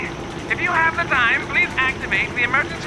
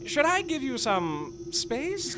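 tender hush; 8 dB quieter than usual. Acted. Reunited pilot and engineer speaking softly and tenderly. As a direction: hush it close and gentle.

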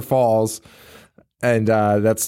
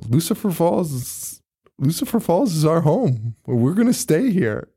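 declaring dad; 5 semitones higher than usual. Acted. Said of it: "the dad just says".

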